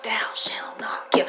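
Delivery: whispered, almost voiceless; hushed commandment quote. Shown as a demonstration.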